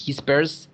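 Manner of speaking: "he spares" run together with a lift; no E before the S of "spares"; linked he spares. Shown as a demonstration. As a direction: glue the S of "spares" onto "he". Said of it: "suena distinto a decir".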